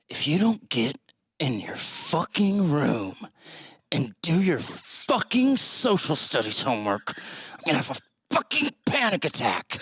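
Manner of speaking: half-mocking drunk father scolding; drunk dad rant. Groggy dad rants at his son at night. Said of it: "here's a good response".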